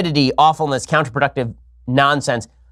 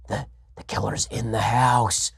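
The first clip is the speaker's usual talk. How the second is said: mock horror line; 4 semitones lower, 7 dB quieter, slower than usual. Horror movie joke.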